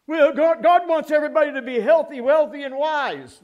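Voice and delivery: lightly mocking the health-and-wealth pitch; mock prosperity preacher.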